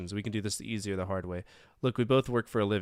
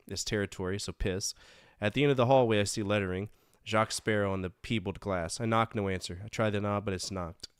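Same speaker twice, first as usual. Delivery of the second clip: hard-boiled detective narration; dry noir voiceover. Acted. Reads game narration.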